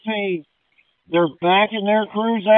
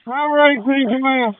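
loud, urgent radio call over the fire; pushing the words out fast and urgently; urgent firefighter radio; 4 semitones higher, 3 dB louder than usual. Real, not acted. Firefighter radioing during a Mayday.

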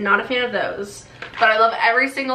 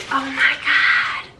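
excited; 6 semitones higher, slower than usual. Real, not acted. Finding popcorn in the box.

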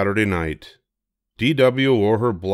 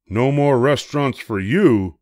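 scolding; 4 semitones higher, 4 dB louder than usual. Acted. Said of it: "scolded Father".

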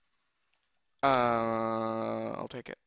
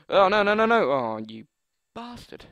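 dismayed yell; 6 semitones higher, 9 dB louder than usual. Real, not acted. Killed by a knifer.

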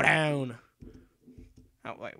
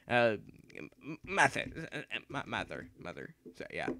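mock dramatic dying away; dramatic fade; 6 semitones lower, 7 dB quieter than usual. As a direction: lower and softer with each mother. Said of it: "I speak natural".

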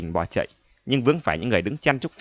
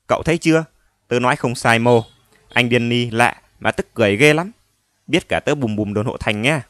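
put-on louder excited child; 4 dB louder than usual. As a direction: gush to a friend. Excited child telling friend.

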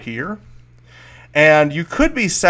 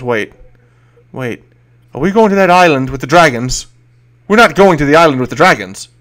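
worried NPC; 2 semitones higher, 7 dB louder than usual. Acted. NPC panics about dragon island.

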